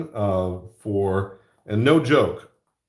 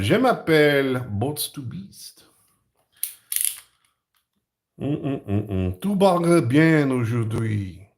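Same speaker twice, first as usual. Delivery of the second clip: butchered French; 3 semitones higher, 4 dB louder than usual. Pretend. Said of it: "My butchered French".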